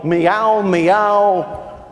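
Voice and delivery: a hint of cocky New York cat; talking cat. Cat with a New York attitude talking, lightly acted swagger. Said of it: "If cats could talk, they go".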